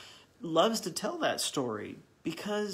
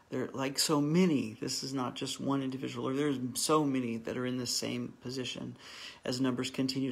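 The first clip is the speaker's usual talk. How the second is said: earnest, gentle closing prayer. Real, not acted. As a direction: pray humbly for the group.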